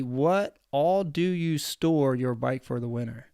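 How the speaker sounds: drawn-out read with "all" stressed; slow puzzled reread. Shown as a demonstration. Puzzled by a viewer's question, slow reread stressing "all". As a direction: mull over the confusing viewer question. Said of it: "I don't understand the question".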